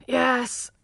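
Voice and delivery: sleepy murmur. A narrator's reading. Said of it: "murmured John, half asleep".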